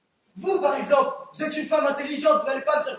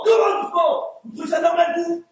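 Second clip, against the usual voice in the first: angry retort; 3 semitones higher than usual. Acted. Juror snaps back at a calming remark.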